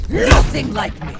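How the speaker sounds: very high, very loud outburst; furious shout. Acted. Jane's other self screaming at Woods, furious shout. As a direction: explode at him with contempt. A second personality takes over, scornful.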